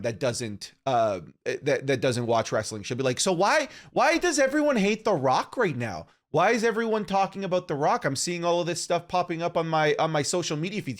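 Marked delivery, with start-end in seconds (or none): 3.2-11.0 higher-pitched imitation of a puzzled girlfriend; mock puzzled questioning, pitched up. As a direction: voice her questions higher, as a curious non-fan. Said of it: "people like my girlfriend".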